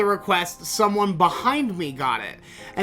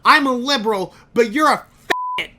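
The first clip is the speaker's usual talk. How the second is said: put-on angry drunk insult; 5 semitones higher, 4 dB louder, faster than usual. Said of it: "he says".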